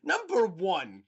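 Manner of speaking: high, loud mock vlogger address; John Green impression. Friend mimicking co-host's vlogger-like delivery to Hank, hammed-up. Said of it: "turning into John Green as we speak".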